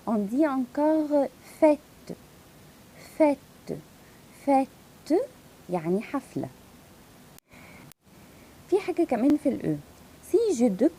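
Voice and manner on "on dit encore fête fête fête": fête with open ê. Shown as a demonstration. Teacher modelling fête with open ê. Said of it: "L'accent circonflexe".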